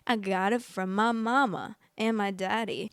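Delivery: playful, swooping singsong delivery; hammed-up joke about mama and daddy; joking. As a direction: play it up for a laugh. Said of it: "Why do I laugh at every single one of my jokes?".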